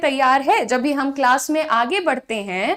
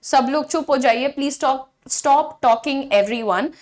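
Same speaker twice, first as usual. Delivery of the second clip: firm tone; much slower than usual. Shown as a demonstration. Teacher firmly telling chatty class to stop. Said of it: "tone की जरूरत है यहाँ पर".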